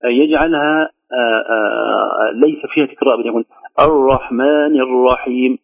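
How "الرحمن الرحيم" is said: slow الرحمن الرحيم with an English-style R; no trill at all on the R of الرحمن; foreign untrilled R. Shown as a demonstration. Teacher imitating some reciters, R said like a non-Arabic one. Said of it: "كأنها راء عجمية".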